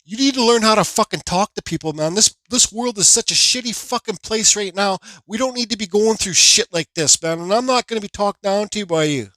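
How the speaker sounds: retold angry lecture. Driver telling off the other man, retold angry lecture. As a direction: replay dressing a man down.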